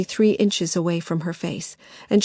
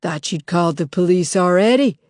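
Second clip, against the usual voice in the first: mocking; 4 dB louder than usual. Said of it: "said the figure with the demon's horns".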